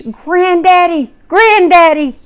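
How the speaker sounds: put-on high, excited child's call, rising each time; high-pitched toddler shout building up; child screaming Granddaddy. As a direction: mimic a little boy calling out to his grandfather. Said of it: "and screams".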